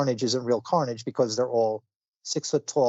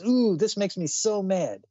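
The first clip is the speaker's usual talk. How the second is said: cartoon character; 3 semitones higher than usual. Telling how the Wolverine kid rants like a cartoon character, hammed-up. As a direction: ham up a cartoon tough guy who's getting mad. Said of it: "this is probably supposed to be like a, like a cartoon character".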